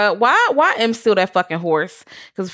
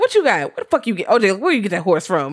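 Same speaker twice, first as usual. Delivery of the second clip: suspicious questioning; 4 semitones higher, faster than usual. Retold or imitated. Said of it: "And she's like".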